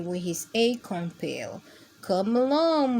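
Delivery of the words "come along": squeaky mouse voice. Acted. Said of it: "Mouse squeaks".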